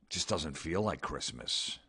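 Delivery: low, soft and deflated; sulky holiday gloom; mopey sigh. Acted. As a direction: mumble it like Christmas is ruined. Mopey friend on warm Christmas.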